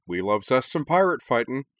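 gleeful little dragon boast. Acted. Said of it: "Noll agreed".

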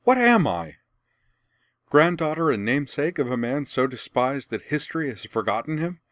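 high, loud, desperate crying out; anguished outcry. A narrator's reading. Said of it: "Azula spun toward her and cried".

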